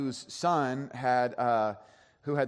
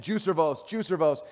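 put-on a little louder and higher, retelling a child's chant; growing insistent; 4 semitones higher, 4 dB louder than usual. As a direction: repeat it more insistently, as the imitated kid. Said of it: "It gets louder and louder".

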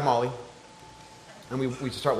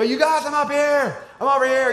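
acted yell; 11 semitones higher, 4 dB louder than usual. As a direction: holler to kids down the hill, re-enacted. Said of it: "I yell to some of the kids".

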